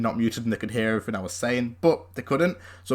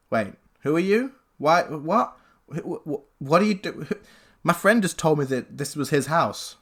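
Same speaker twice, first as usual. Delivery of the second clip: put-on slightly higher, stammering drunk lad; confused drunk guy; 4 semitones higher than usual. Drunk intruder caught in the flat, stammering and confused. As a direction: play the baffled drunk stumbling over his words. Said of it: "he turned around and said".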